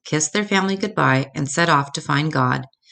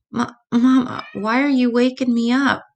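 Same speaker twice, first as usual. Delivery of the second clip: little cub voice; 8 semitones higher than usual. Acted. Child cub woken in dark.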